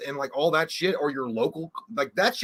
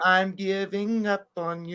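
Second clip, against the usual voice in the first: mock fed-up; 4 semitones higher, slower than usual. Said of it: "Say something".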